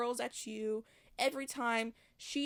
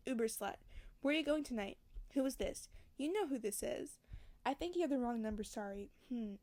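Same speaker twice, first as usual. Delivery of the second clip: story narration. A narrator's reading. Reads novel passage aloud.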